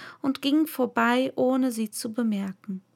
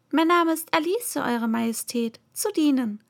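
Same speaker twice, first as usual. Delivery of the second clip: very polite; 3 semitones higher than usual. Acted. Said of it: "sagte Alice sehr höflich".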